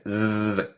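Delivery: sustained zzz sound; bee-like buzz. Shown as a demonstration. Teacher shows how the S sounds, bee-like buzz. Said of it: "suena más como abeja".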